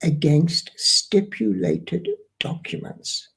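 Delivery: "against stipulated documents" repeated slowly, word by word; "stipulated documents" spaced out deliberately; emphatic repetition. Shown as a demonstration. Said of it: "I repeat that".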